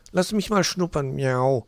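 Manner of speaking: high cat voice with a miaow; high, eager cat child; Mauz. A narrator's reading. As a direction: demand it like a little tomcat. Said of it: "forderte Mauz".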